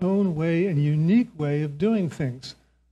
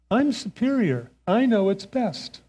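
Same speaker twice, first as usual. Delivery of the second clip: raised, self-satisfied mock arrogance; smug superiority; 4 semitones higher than usual. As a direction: lightly play your younger know-it-all self. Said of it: "I'm thinking to myself".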